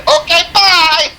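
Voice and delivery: high, slow singsong through a laugh; laughing singsong bye to the trooper. Retold or imitated. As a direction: repeat the goodbye, laughing. Repeats it, laughing.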